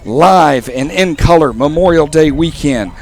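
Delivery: wrestling voice. Acted. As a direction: boom it out like a wrestling promo. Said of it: "I was trying to channel my wrestling voice there for a second".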